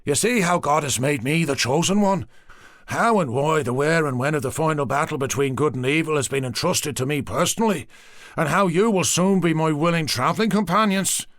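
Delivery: settling zealot; a priest coming down from mania; mania subsiding. Acted. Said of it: "mania subsiding".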